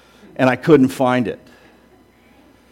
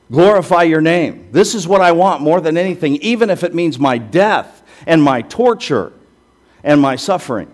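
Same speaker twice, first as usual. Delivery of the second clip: louder, higher heartfelt plea; preacher voicing Jesus's impassioned prayer; fervent prayer; 3 semitones higher, 4 dB louder than usual. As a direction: cry out the prayer to the Father. Preacher voices Jesus praying.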